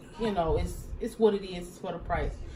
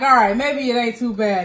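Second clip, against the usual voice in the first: said through a laugh; laughing relief; 8 dB louder than usual. Retold or imitated. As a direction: brighten up, laughing it off. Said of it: "'Cause then I'm like".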